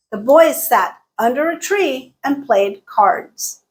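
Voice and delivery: BOYS, SAT, TREE, PLAYED, CARDS stressed; emphasized content words. Shown as a demonstration. Teacher repeating sentence two, content words emphasized. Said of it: "I emphasize boys".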